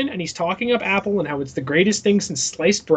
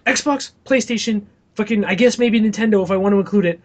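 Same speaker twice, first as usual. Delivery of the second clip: bro customer; 2 semitones higher than usual. Retold or imitated. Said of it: "People come in, they go".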